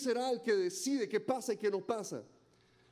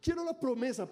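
mock eager believer; 6 semitones higher than usual.

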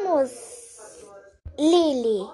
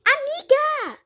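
alarmed call; 11 semitones higher, 5 dB louder, slower than usual. Acted. Alarm at her friend on the floor.

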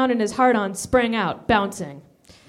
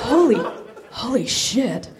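laughing; slower than usual. Acted. Stunned exclamation with laughter.

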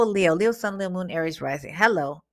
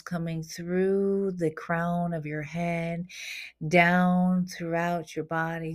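guided meditation; slower than usual. Acted. Guiding listeners to imagine protective golden light, soothing meditation voice. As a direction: lead them gently through the imagery.

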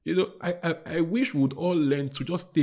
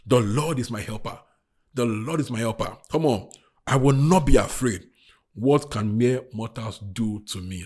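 leading a recitation; 4 semitones lower, 5 dB louder than usual. Shown as a demonstration. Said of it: "So right now, say after me".

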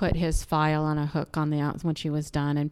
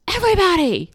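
high, loud mock announcement to a crowd; little boy calling out; 12 semitones higher, 8 dB louder than usual. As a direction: imitate a child hollering for attention. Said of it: "suddenly their son goes".

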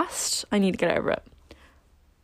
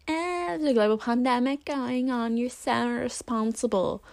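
higher, nasal-free scolding mock voice; mocking critics; 4 semitones higher, 4 dB quieter than usual. Imagined critics scolding her for the party, mock scold. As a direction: sneer like a judgmental stranger online. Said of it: "those people are gonna be like".

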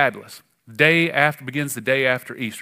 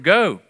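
"go" lifted and louder; stress on go; 4 semitones higher, 4 dB louder than usual. Shown as a demonstration. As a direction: lean hard on "go". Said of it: "I want to emphasize the word".

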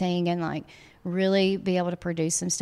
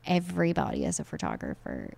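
dry, softer sarcastic repeat; 3 semitones lower, 5 dB quieter than usual. Acted. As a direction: say it with an eye-roll. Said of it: "I'm being extremely sarcastic".

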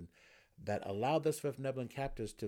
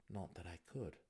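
soft, resigned aside; calm; 3 semitones lower, 6 dB quieter than usual. A narrator's reading. Prisoner in shackles conceding to his captor, calm. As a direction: add it quietly and calmly. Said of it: "replied as calmly as he could".

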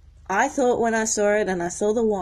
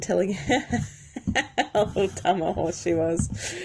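laughing. Real, not acted. Laughs recounting own cussing.

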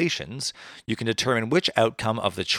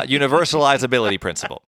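"universalizability" spelled out slowly, syllable by syllable; 2 semitones higher, 4 dB louder than usual. Shown as a demonstration. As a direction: carefully sound out "universalizability principle". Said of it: "I just had to say it slow for myself".

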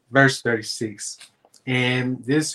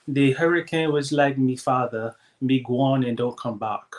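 put-on light Jamaican accent. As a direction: read it with a Jamaican lilt. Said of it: "I'm gonna do it in a Jamaican accent".

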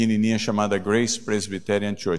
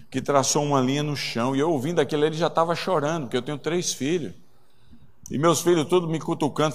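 ordinary talk

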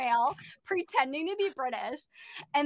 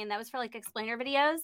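normal talking voice

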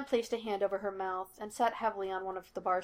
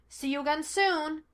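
higher, light parting call; calling back; 7 semitones higher than usual. A narrator's reading. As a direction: toss a farewell back at him. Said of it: "Sean called behind him".

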